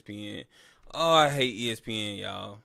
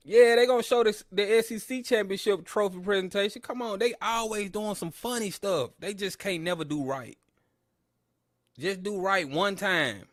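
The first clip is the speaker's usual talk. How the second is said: exasperated complaint; 5 semitones higher than usual. Real, not acted. Complaining about ESPN coverage.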